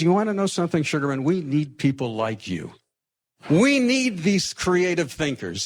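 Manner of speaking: a hint of the general chuckling as he praises; amused general. General praising the young recruit, amused and high.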